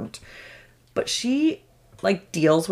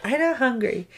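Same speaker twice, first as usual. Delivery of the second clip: put-on higher little-kid voice; refusing child; 5 semitones higher than usual. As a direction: imitate a kid turning down dinner. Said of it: "She's like".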